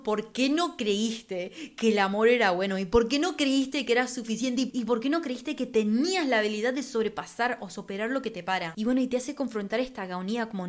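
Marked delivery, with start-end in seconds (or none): 0.0-8.6 a mild hint of tears, louder and pleading; tearful self-reproach. Old self at the mirror asking why, mildly tearful. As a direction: scold yourself gently while almost crying. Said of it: "como llorando, diciendo".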